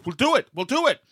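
imitating an eager promise; mock Trump reply. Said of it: "Now that I think about it".

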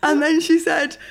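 high, loud, breaking into real laughter; can barely get the words out for laughing; laughing through it. Real, not acted. Retelling her vet blunder to the co-host, laughing helplessly.

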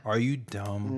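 "Are you dumb" low and soft, evenly said; other inflection. Shown as a demonstration. Showing an outsider's inflection, "Are you dumb" low and soft. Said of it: "Not with the same infliction".

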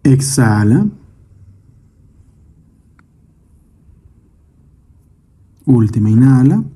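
calm meditation guide, measured phrases with long pauses; guided meditation. Acted. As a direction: lead the listener gently through breath and imagery, unhurried. Leads a guided breathing meditation. (meditación guiada, voz tranquila y pausada)

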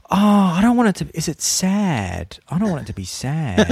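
high, fast, anxious whine; whiny worried quote. Retold or imitated. Telling friends she doesn't want a sad mystery, in a high anxious whine. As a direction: fret like a nervous kid about a sad story. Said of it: "and I just went".

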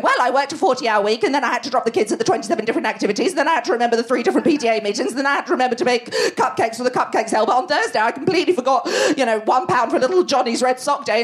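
fast breathless boasting rant; mock school-gate mum. Mimicking a school-gate mum, rattling off her busy week fast. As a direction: gabble through the list like a smug supermum.

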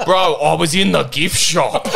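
slow, high, laughing through the quote. Retold or imitated. Quoting Smocko's gift shop line to mates, laughing. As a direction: giggle out the punchline.

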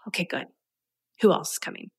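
mild imitation of a bored, jaded tone; half-hearted okay, good. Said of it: "your energetic tone".

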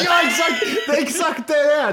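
high, loud, thrilled; high shouted "Ja, exakt!"; excited shout. Real, not acted. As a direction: yell out "exakt!" in delight. Excited agreement after the demo.

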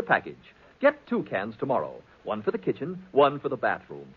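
upbeat announcer selling cleanser; radio ad read. Acted. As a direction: pitch the product like a 1940s radio announcer. Announcer reads sponsor ad.

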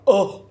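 loud, exaggerated "oh" of horror; mock disgusted gasp. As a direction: imitate a diva recoiling. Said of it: "a diva about glitter".

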